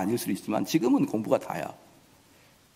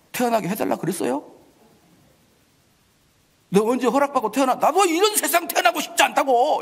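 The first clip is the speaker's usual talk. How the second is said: higher, louder, talking back; defiant child retort; 8 semitones higher, 3 dB louder than usual. Acted. Son snapping back at his scolding father, higher and louder. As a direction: throw it back at the father like a sulky teen.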